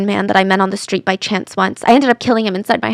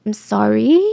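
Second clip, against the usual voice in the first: "sorry" rising at the end like a question; rehearsed apology; slower than usual. Retold or imitated. Suspect practising how sorry sounds, "sorry" as a question. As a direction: lift the tail of "sorry", testing it. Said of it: "repeating that one line in different emotions".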